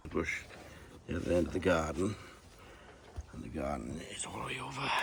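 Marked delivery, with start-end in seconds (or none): 3.3-4.9 soft unvoiced whisper. Real, not acted. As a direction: breathe it out in a whisper. Quiet aside touring the garden.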